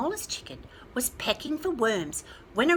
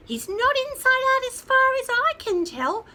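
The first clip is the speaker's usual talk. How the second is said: clucking chicken; 14 semitones higher, 9 dB louder than usual. A narrator's reading. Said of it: "clucked the small chicken".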